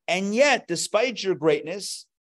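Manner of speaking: voicing an amazed worshipper; awed address to God. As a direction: marvel directly at God. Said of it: "that should evoke a love for God".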